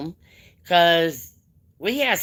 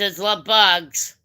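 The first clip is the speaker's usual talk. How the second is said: "bugs" said slowly and firmly, correcting "birds"; stress on bugs; slower than usual. Shown as a demonstration. Correcting her chat's word, slow stress on "bugs". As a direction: lean on "bugs", drawn out. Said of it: "It ain't love birds".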